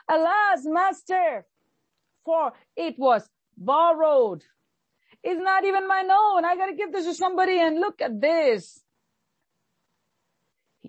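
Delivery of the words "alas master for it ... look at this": higher, pleading cry to the master; crying out to Elisha. Retold or imitated. Son of the prophet crying to Elisha, higher pleading. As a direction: plead like a man who lost a borrowed axe. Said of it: "he immediately cried out".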